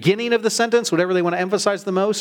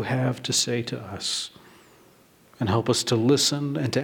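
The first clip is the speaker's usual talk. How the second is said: quietening pastoral prayer; 4 semitones lower than usual. Real, not acted. Leads a congregational prayer.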